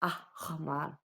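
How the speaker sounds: "aħmar" with a separated opening ah; emphasized ah. Shown as a demonstration. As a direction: dwell on the ah at the start of "aħmar". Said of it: "emphasize on the ah".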